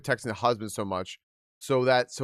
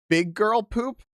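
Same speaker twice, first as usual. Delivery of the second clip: high, amused disbelief; incredulous repeat; 8 semitones higher, slower than usual. Shown as a demonstration. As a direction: say it like you can't believe it.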